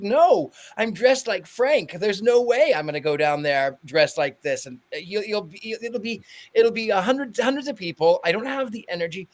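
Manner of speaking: acted-out reluctant excuse-making; retold protest. Retold protest to insistent friend.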